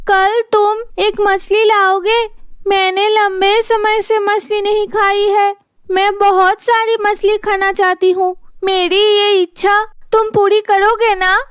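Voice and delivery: coaxing wife. Acted. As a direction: coax him sweetly for fish.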